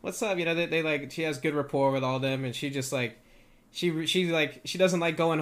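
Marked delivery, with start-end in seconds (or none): 0.0-0.4 high, drawn-out singsong greeting; fawning customers. Acted. Customers coming in to greet Carmela, drawn-out mock greeting. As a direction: imitate customers cooing a greeting, pitched up.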